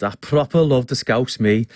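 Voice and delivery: playful touch of Scouse; lightly put-on Scouse accent. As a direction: lean into Scouse for a fond aside. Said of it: "the Scouse accent".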